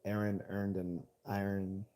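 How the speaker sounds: slow, deliberate test phrase; careful enunciation. Shown as a demonstration. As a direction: read the accent tongue-twister slowly, word by word. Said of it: "How's that accent, though".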